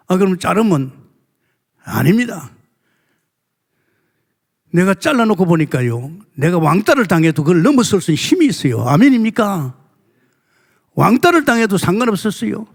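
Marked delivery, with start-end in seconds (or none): 4.7-12.7 higher, louder fervent sermon climax; full-force preaching. Real, not acted. Preacher rousing the congregation with a loud higher call. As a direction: preach it with rising fervor.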